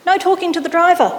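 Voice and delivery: high, loud, snapped squawk; squawking driver. A narrator's reading. Bus driver snaps at the kid to sit, squawking. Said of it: "she squawked".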